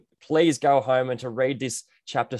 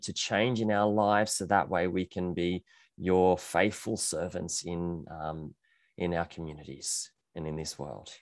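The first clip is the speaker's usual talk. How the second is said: prayer; 3 semitones lower than usual. Acted. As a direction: pray gently for the congregation. Leads the congregation in prayer.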